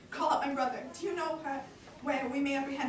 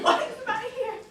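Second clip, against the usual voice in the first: breaking into laughter; 10 semitones higher, 8 dB louder than usual. Acted. Woken senator answers, laughing.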